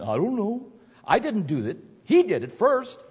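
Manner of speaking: put-on high, whiny child making excuses; whiny tattling little sibling. Reading kids' excuses aloud.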